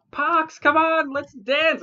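high, excited party invite; excited call. Acted. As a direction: call out gleefully to a friend. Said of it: "she's like".

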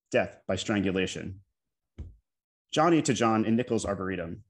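measured poem recital, pauses between phrases; poetry reading. Acted. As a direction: read an elegy aloud, each phrase set apart, settling downward. Reads own elegy aloud to audience.

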